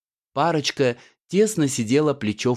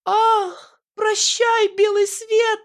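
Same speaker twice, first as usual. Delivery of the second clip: very high melodramatic wail; very high hammed-up dying heroine; desperate moan; slower than usual. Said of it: "отчаянно простонала Аннушка".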